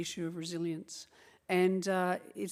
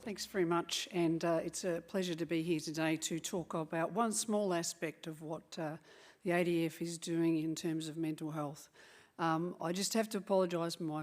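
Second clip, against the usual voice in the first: hoarse from cheering; husky, worn-out voice. Real, not acted. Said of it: "please excuse my rather husky voice today".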